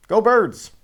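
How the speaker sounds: high, loud rallying shout; fan cheer. Real, not acted. An Eagles fan signing off, loud cheer. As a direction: cheer it out for your team.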